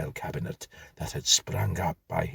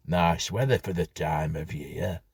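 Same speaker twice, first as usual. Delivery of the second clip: lightly voiced Yorkshire small talk; chatty Yorkshire grocer, mild; a hint of a Yorkshire grocer; Yorkshire accent. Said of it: "he remarked in a Yorkshire accent".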